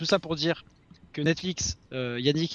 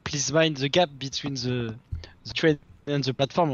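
mock metro announcement; slower than usual. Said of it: "aime bien te dire".

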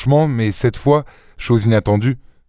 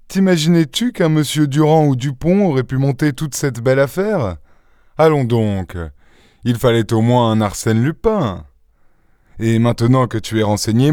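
raised, amused gloating; triumphant, mocking Lupin; 4 semitones higher than usual. Lupin mocking Varin after the reveal, triumphant. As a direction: crow over the beaten opponent with theatrical ease.

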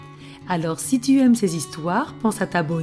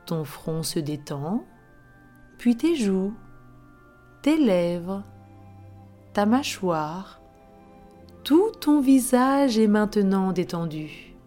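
right in your ear. Acted. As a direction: breathe them gently into calm. Leads a relaxation before story. (voix douce de relaxation guidée)

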